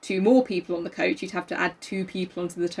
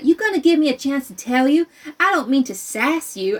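put-on child's voice; 5 semitones higher, 4 dB louder than usual. Child voice reading.

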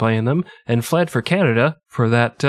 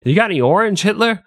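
Hitler impersonation; 9 semitones higher than usual. Retold or imitated. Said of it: "That was my Hitler impersonation".

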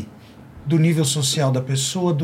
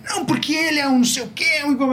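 angry resident; 9 semitones higher, faster than usual. Retold or imitated. Resident yelling at doorman, retold.

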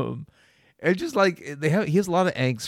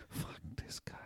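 hushed cursing under the breath; mock-disgusted, voiceless mutter; exasperated whisper; 6 semitones lower, 21 dB quieter than usual. Muttered reaction to co-host's refusal.

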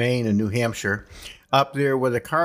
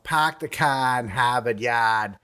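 slow, R-less Boston accent; unhurried Boston catchphrase accent; slower than usual. Shown as a demonstration. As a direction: drop the R's like a Bostonian, drawn out. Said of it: "which they always say in Boston".

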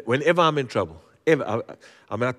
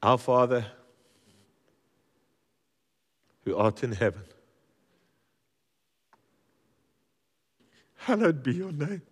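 prayer; 2 semitones higher than usual. Acted. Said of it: "get on your knees and say".

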